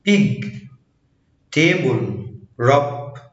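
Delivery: "big", "table", "rub" with a clear voiced b; B like Arabic ba. Shown as a demonstration. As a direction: sound the B fully at start, middle and end of big, table, rub. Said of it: "بيتنطز زي ال ب".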